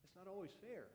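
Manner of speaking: put-on a father gently pleading with his angry older son; gentle pleading father. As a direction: coax the son back in, tenderly. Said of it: "my father kept pleading with me and saying".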